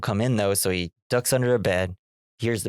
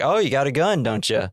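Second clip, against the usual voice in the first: lightly Canadian mock taunt; slight Canadian accent; 3 semitones higher than usual. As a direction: let a hint of Canadian slip into the taunt. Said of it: "almost got Canadian there".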